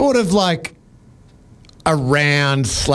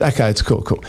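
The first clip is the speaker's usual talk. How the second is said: low, calm reassurance; retold calm; 5 semitones lower than usual. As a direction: play it cool and unbothered, voice lowered. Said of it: "being very calm in this situation".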